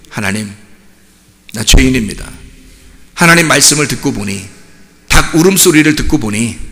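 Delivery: low, hushed penitent prayer; retold tearful confession. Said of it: "막 우는 거예요".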